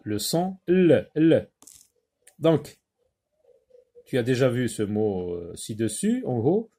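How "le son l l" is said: "L" pronounced as a held lll, not the letter name; sound of L. Shown as a demonstration. Teacher showing how it is pronounced, isolated sound. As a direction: say "L" as the bare consonant, then repeat it. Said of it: "Donc ça se prononce".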